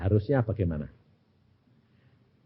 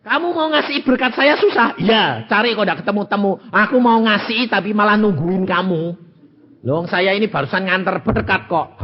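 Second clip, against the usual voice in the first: 1 surprised exchange; 7 semitones higher, 4 dB louder than usual. Acted. Acted surprised exchange with visitor.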